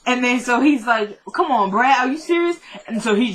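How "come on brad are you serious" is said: outraged, can't believe it; indignant disbelief. Retold or imitated. Eddie to Brad, protesting high and indignant. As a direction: pitch jumps up on serious.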